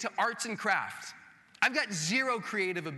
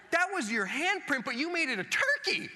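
much higher, delighted wonder; genuinely impressed; 7 semitones higher than usual. Retold or imitated. Pastor showing how he praises kids' crafts, thrilled. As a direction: marvel at a child's handprint turkey. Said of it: "genuinely impressed".

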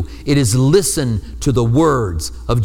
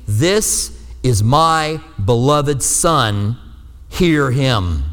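voice of God; much slower than usual. Acted. Voice from the cloud speaking.

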